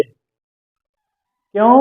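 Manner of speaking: a very long, stretched why; drawn-out why. Real, not acted. Teacher asking students why, drawn out. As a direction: stretch the question to make them think.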